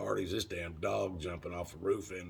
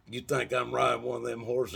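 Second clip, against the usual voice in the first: incredulous; 5 semitones higher, 5 dB louder than usual. Retold or imitated. Incredulous at the horses.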